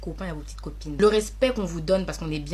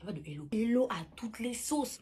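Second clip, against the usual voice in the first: whisper; 5 dB quieter than usual. Acted. Mocking overuse of hello.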